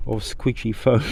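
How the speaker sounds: holding back a laugh; fighting off giggles on the words; stifled giggles. Real, not acted. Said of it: "I'm trying not to laugh".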